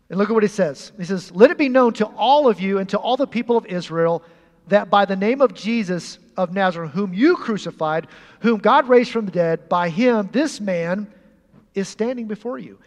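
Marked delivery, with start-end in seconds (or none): 1.3-12.8 bold proclamation. Acted. Preacher reading Peter's bold declaration.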